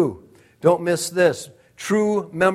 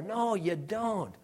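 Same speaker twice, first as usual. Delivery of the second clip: quiet firm no; 8 dB quieter, slower than usual. Acted. Repeated refusal.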